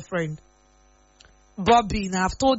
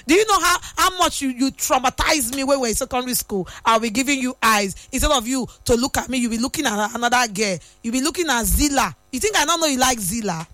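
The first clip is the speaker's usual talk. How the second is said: mock outraged scolding, pitch jumping up at the start; half-playful tell-off of a boy who ignored her; retold scolding. Scolding the boy who liked Zilla, mock outrage. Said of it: "I said".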